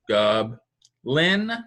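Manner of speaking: goblin said in two clear beats, gob and lin; syllable demo. Shown as a demonstration. Teacher modelling syllables for second graders, clear demo. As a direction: sound out goblin slowly. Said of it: "hand under your chin".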